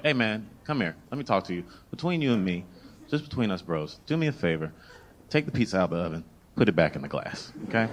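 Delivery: low, softened confidential aside; discreet request. Retold or imitated. Customer discreetly asking pizza guy a favor, hushed confiding. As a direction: keep it down, just between bros.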